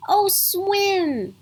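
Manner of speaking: put-on high, bright-eyed little girl squeal of joy; a child thrilled at the idea of a swim; excited girl. Mandy hearing about the swim, excited and high. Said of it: "Mandy said excitedly".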